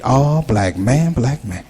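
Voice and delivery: slow, low preachy call; recruiting brother. Retold or imitated. Recruiter greeting the comic at the masjid, slow low call. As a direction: stretch out black man like a recruiter.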